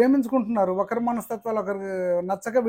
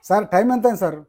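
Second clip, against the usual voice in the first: louder repeat of the question, insistent; asking again louder; 6 dB louder than usual. Retold or imitated. Boy at the bus stop repeating his question to the man, louder. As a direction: call the question out again, louder, to get an answer. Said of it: "మళ్ళీ ఇట్లా".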